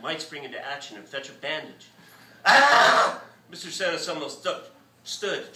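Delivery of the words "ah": high, loud startled ah; shocked cry. A narrator's reading. Vet seeing blood, shocked cry. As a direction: gasp out at the blood.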